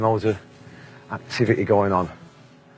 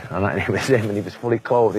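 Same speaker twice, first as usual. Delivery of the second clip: ordinary talk, nothing marked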